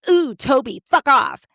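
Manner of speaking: put-on dismissive impression; Heather Mooney. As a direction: quote the film line with high scorn. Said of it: "in the tone of Heather Mooney".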